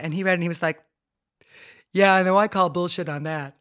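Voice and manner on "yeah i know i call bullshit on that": son's voice. Retold or imitated. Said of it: "I love you doing his accent".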